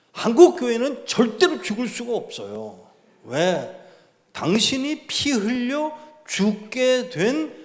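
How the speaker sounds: high, loud, impassioned pulpit cry; fiery preaching. Acted. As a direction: preach it out to the whole hall, slowly at the peak. Preacher rises to full force.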